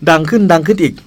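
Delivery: only a light lift in volume. Pretend. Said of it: "ขอเสียงควายหน่อยครับ".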